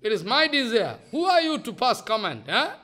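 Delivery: Jagannath speaking. Retold or imitated. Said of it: "So Jagannath speaking".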